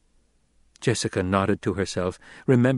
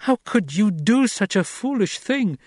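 much higher, sharp demand; angry demand; 11 semitones higher than usual. A narrator's reading. Jessica scolding her son for his foolish risk, high and demanding. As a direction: throw the question at him in alarm. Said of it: "she demanded".

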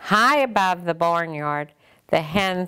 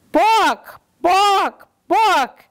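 high loud clucked book; polite hen cluck; 13 semitones higher, 6 dB louder, much slower than usual. Acted. The hen asks the librarian for a book, clucking high. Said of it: "clucked the hen quite clearly".

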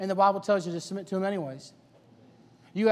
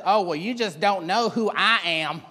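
self-important lady; 3 dB louder, slower than usual. Acted. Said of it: "get a lady like that and she says".

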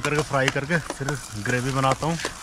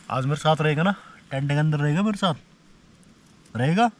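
coaxing a dog; 2 semitones higher than usual. Real, not acted. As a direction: coax the dog to stay, pitch up.

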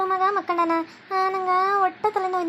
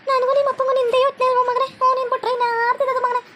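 doting mother; 4 semitones higher than usual. Acted. Mother sweet-talking son.

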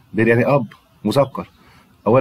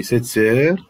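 slow model words; slower than usual. Shown as a demonstration. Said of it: "يبقى سيت دي مؤنثة".

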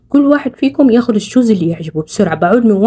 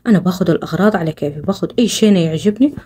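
scheming aside; 5 semitones lower, 4 dB quieter than usual. Acted.

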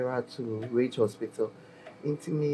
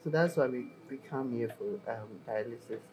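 fighting tears. Real, not acted. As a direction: voice fading into tears. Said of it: "Okay, relax".

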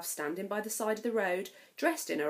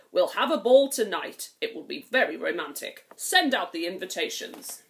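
king; 7 dB louder than usual. Acted. King decreeing a ball.

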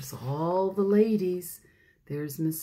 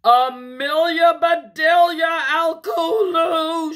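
high, loud full-name scolding; loud, stern holler; scolding shout; 8 semitones higher, 9 dB louder than usual. A narrator's reading. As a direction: yell the names like a furious grown-up. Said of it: "shouted Missus Rogers".

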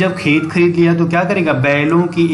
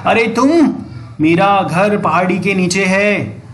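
mild angry call; 2 semitones higher than usual. Acted. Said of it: "वो गुस्से से चिल्लाया".

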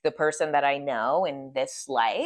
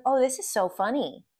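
higher-pitched imitation of amusement; amused, cute; 6 semitones higher than usual. Retelling her laughing client's reaction, lightly voiced amusement. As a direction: mimic someone finding it all funny. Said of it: "And she's laughing".

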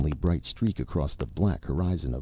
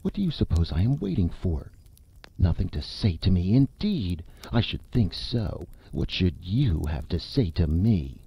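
indignant anger. Acted. Madeline rounds on the narrator, hurt and indignant. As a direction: let hurt pride burn through every line. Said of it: "her face flushed and her eyes ablaze".

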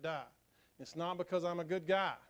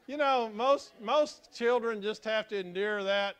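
laughing tease; 6 semitones higher, 8 dB louder than usual. Real, not acted. Teasing about his own kids.

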